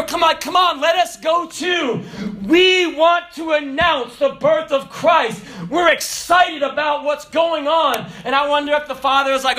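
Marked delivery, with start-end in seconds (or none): 0.0-8.1 higher, slow, near-shouted pleading; excited angels asking to go too; eager angels. Pretend. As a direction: beg to join in, bursting with joy. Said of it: "I believe those angels, they were".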